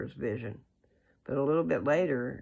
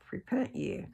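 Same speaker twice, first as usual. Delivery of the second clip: preaching prophet; 6 semitones higher than usual. Retold or imitated. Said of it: "out preaching to the people to repent".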